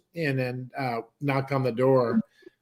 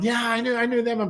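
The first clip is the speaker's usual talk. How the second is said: higher-pitched retold agreement; eager recognition; 8 semitones higher than usual. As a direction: imitate the guy chiming in that he remembers. Stranger answering mom, retold.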